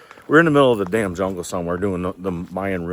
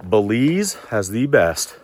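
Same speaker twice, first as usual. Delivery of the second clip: breathless while climbing; out of breath; slower than usual. Real, not acted. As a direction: talk between breaths on an uphill walk. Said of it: "Sorry, I'm out of breath, we're climbing".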